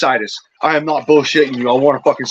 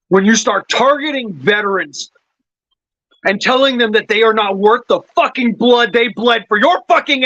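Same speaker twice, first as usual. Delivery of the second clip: pitched-up, heated rant that keeps climbing; 5 semitones higher than usual. Real, not acted. Veteran ranting at lawmakers targeting veterans, rising angry pitch. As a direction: let the anger build higher line by line. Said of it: "I'm so goddamn fucking angry".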